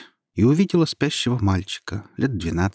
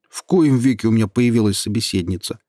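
pleased tone; 4 dB louder than usual. Acted. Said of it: "довольным тоном сказал голос".

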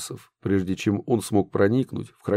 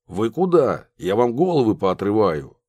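louder menacing threat; sinister voice; 3 dB louder than usual. Acted. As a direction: threaten like a villain. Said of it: "зловещий голос".

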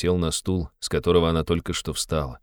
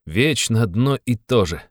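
slow, louder irritated cry; irritable outburst; 5 semitones higher, 4 dB louder than usual. Acted. Raskolnikov loses patience with Sonya, slow irritated outburst. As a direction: snap it out, exasperated. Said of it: "вскричал раздражительно Раскольников".

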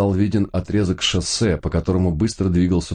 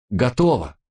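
excited announcement; 7 semitones higher than usual. A narrator's reading. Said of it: "объявил он".

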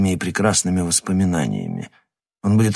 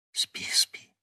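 put-on soothing whisper, as to a child; whispering over a crib; 8 dB quieter than usual. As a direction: hush him like a sleepy baby. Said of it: "обеспокоенно зашептала она ему, как ребёнку".

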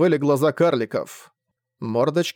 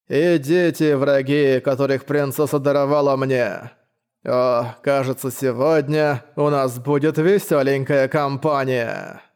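lisping knight voice; slushy lisp; slower than usual. Acted. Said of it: "Странный шепелявый голос".

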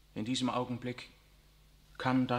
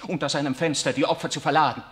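anguished outburst; 3 semitones higher, 10 dB louder than usual. Acted. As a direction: tear the words out in despair. Riccardo erupts against the Pope.

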